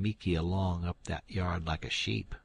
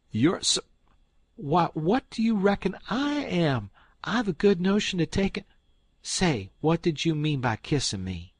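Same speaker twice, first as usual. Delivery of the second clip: much higher, louder aunt; sputtering outrage; 10 semitones higher, 6 dB louder than usual. Acted. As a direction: splutter in indignation. Aunt Sally sputters at the kiss.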